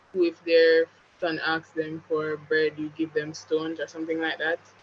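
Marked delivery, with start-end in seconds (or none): none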